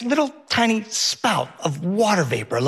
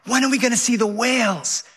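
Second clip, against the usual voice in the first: mock child yell; 7 semitones higher than usual. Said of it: "Henry yells".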